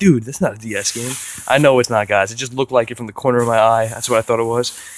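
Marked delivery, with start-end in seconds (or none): 0.0-1.1 teasing, roasting, ribbing jab. Imagining viewers mocking the find: imitating viewers roasting. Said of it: "you guys are gonna roast me being like".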